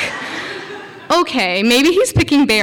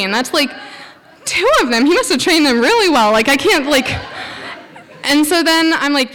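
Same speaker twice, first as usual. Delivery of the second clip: laughing; 5 semitones higher than usual. Real, not acted. Laughing at dogs in trees.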